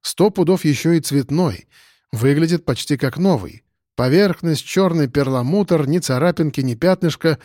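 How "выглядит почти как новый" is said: plain reading voice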